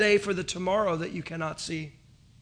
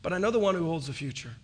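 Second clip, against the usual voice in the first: calm reply; 2 semitones lower, 6 dB quieter than usual. Retold or imitated. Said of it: "looked at me very calmly and said".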